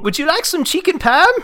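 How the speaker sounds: high, loud mock New York accent. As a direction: ham up a New York waiter. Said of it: "I'm doing New York".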